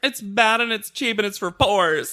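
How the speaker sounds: high, loud, drawn-out screamed rant. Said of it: "That's what she's screaming at people".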